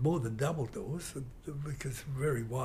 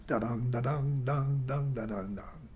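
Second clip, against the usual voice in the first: guitar riff imitation. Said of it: "what's the other one".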